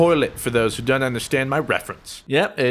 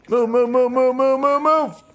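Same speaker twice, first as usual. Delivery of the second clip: loud, higher frantic move-move-move; urgent shouting; 9 semitones higher, 4 dB louder than usual. Real, not acted. Yelling at enemies in game, frantic loud repeats. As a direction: bark orders at the screen.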